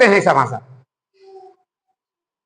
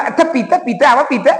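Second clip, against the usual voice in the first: put-on grown-up talking back in baby lisp; adult baby talk. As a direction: coo it back in the child's lisp. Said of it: "वो तुतलाए लगते हैं ना".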